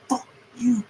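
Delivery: high breathy whispered fuck you; whispered curse. Real, not acted. Mechanic cursing engineers under his breath, whispered. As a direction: hiss it under your breath.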